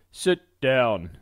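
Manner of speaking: firm, understated command. Acted. Blacksmith orders the couple to sit, firm command. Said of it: "Archibald commanded".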